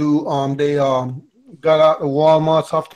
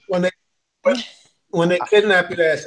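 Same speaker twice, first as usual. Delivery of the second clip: talking with a mouth full of fried chicken; chewing chicken while talking; eating crunchy fried chicken; 3 semitones higher than usual. Real, not acted. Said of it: "excuse me, I'm eating fried chicken".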